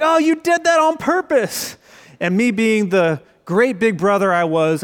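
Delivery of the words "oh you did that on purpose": high-pitched, imitating an angry little sister; mock angry accusation. Little sister accusing her brother after the ketchup hit, mock angry. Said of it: "really angry".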